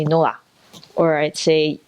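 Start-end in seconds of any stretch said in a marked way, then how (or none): 0.0-0.3 Singaporean accent. Shown as a demonstration.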